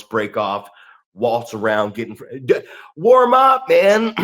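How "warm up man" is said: shouting warm up. Retold or imitated. Yelling at trainees.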